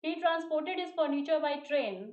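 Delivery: very slow, stress on furniture; slow example read. Shown as a demonstration. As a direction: dictate slowly, leaning on furniture. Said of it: "कुछ examples यहाँ पे लिखा आपके लिए". (धीमे उदाहरण पढ़ना, furniture पर ज़ोर)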